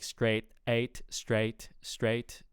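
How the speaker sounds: "straight" with its "eight" vowel exaggerated; over-exaggerated vowel. Shown as a demonstration. Coach mimics what sounds odd to them, exaggerated "straight". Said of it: "I'm over-exaggerating".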